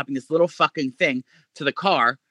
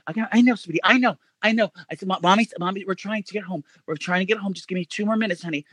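lightly voiced soothing mom. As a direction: soothe a child who isn't there. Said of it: "I'm still in the character".

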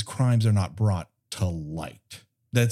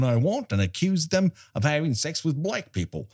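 light Aussie accent, imitating; a hint of Australian accent; 3 semitones lower than usual. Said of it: "That's my Australian accent".

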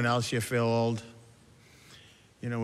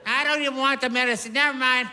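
embarrassed customer. Acted. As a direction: back out of it, flustered. Embarrassed old customer reacting.

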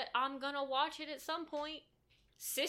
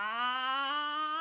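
powering-up yell; 3 semitones higher, 5 dB louder than usual. Retold or imitated. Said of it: "thirty minutes of".

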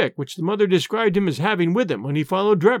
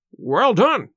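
a touch of warm praise, louder; praising a junior with mild warmth; encouraging; 3 semitones higher, 4 dB louder than usual. Acted. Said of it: "in an encouraging voice".

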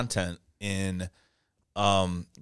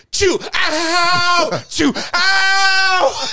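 high loud sneeze then pained ow; mock sneezing yelps, much higher and louder; imitated sneeze and yelp; 9 dB louder, much slower than usual. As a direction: sneeze then cry out in pain, hammed up.

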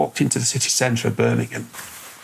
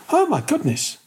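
astonished gasp. Retold or imitated. Wife astonished at carving.

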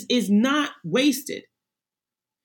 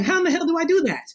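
panicked self; 6 semitones higher, faster than usual. Retold or imitated.

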